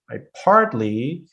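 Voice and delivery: partly drawn out and rising; slow stressed demo of partly. Shown as a demonstration. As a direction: hit the word partly slowly. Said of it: "so that's what matters".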